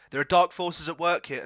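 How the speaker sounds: high, forceful woman's voice; too-loud character voice. Acted. Scarlet warning Marmalade of danger, too loud for her soft voice. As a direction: raise pitch and volume for an urgent warning. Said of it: "It's a softer voice than that".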